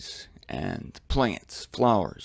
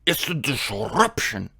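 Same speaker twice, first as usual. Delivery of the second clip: put-on German accent. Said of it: "He said".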